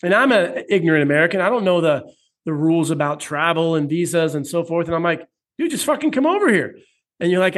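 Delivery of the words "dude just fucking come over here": exasperated urging. Retold or imitated. Urging friend to just come over.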